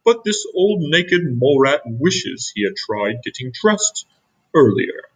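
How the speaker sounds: a lightly voiced regal Grandpa; grand proclamation. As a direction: address the colony grandly.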